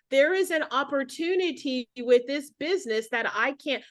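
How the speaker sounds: stilted sales spiel. Acted. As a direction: recite it like a stiff script. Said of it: "I don't talk like that".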